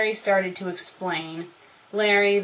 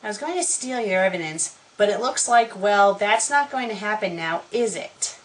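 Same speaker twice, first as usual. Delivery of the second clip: ordinary delivery, nothing marked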